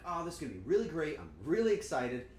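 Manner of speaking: bubbly, fast, over-eager self-imitation; mock excitement. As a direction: gush about the new pans. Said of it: "and I'm like".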